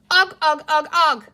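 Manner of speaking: high, loud yelping creature voice; goblin yelping. A narrator's reading. Green creature clings to the boat yelping its one word. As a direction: chant the word like a cornered little goblin.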